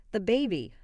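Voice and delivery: put-on "The baby" spaced out, both words stressed; firm, word by word; each word emphasized. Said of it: "emphasizing each word".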